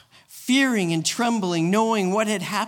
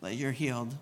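forced congratulations; 5 semitones lower, 9 dB quieter than usual. Retold or imitated. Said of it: "it's like".

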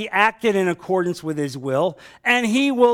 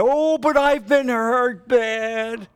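higher, slow, self-pitying mock whine; mock whiny complaint; 6 semitones higher, much slower than usual. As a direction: drag it out like a sulking churchgoer. Mocking a hurt churchgoer's complaint.

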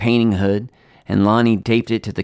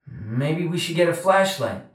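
high, faint voice from far off; distant boy; 7 semitones higher, 4 dB quieter than usual. A narrator's reading. Charlie under the house to Lonnie, distant and faint. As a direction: call back softly as if from a crawl space.

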